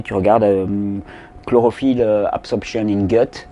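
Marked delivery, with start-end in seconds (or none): 2.3-3.5 English words with a heavy French accent; English in an unpolished French accent. Real, not acted. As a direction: say the English search terms like a French speaker. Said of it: "avec mon bel accent anglais".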